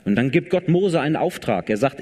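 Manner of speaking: ordinary talk, nothing marked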